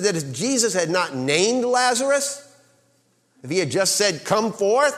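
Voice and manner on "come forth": high, loud shout of come forth; shouted command. Shown as a demonstration. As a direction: shout it across the cemetery. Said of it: "when he shouted".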